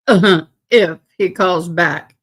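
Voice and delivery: slow, laughing as she says it. Real, not acted. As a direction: chuckle through the words. Repeats line while laughing.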